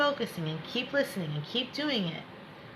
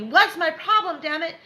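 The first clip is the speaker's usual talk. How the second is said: mock frustrated voice; 7 semitones higher, 5 dB louder than usual. Imitating client's frustration.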